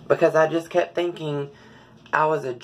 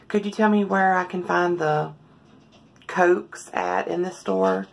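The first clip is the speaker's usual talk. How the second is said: higher, soft, feminine-pitched greeting voice; soft public voice; 5 semitones higher than usual. Shown as a demonstration. Showing viewers her public voice, soft and high-pitched. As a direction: lift the voice up high and keep it soft and light. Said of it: "I speak in a very soft, high-pitched voice".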